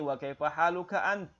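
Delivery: ant held and stopped, no final a; held final syllable. Shown as a demonstration. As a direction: hold ant without finishing the vowel. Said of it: "tapi ditahan". (ant ditahan, tidak dibaca anta)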